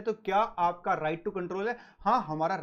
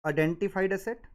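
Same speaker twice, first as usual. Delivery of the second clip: dictating. Shown as a demonstration. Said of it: "अगर आप लिखना चाहो तो सर यहाँ पे लिख लो".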